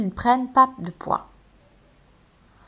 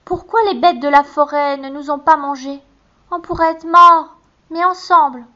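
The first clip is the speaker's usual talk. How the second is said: tearful; 6 semitones higher, 6 dB louder than usual. A narrator's reading. Gretel weeping.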